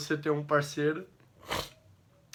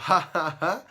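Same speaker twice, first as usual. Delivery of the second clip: mock dutiful laugh at a joke, a little louder; forced polite laugh; 7 dB louder than usual. Shown as a demonstration. Man showing the laugh he should give at a joke, forced. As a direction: fake the laugh you're supposed to give. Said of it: "que eu deveria fazer um".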